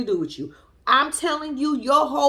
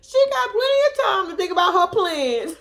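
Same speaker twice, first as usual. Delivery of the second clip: louder retake; 7 semitones higher than usual. Shown as a demonstration. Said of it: "repeats the line louder".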